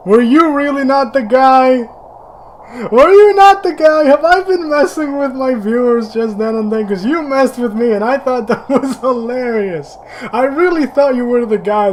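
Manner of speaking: high, loud, shocked disbelief; realising you got it wrong; high loud laughing shock; incredulous surprise. Real, not acted. Shocked realising misread scene.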